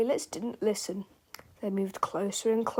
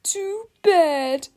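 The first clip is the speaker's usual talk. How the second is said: high, gloating shout; delighted shout; 8 semitones higher, 6 dB louder than usual. A narrator's reading. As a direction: crow it with delight. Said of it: "shouted with delight".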